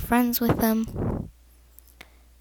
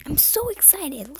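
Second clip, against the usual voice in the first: higher-pitched, drawn-out imitated excitement; excited; 5 semitones higher than usual. Uplifted kid invited to play, mildly excited. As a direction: voice a kid thrilled to be included. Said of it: "might uplift them, like".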